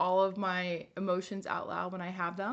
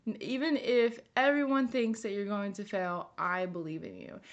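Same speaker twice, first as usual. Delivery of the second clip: comforting herself. Shown as a demonstration. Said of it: "And then you would say to yourself".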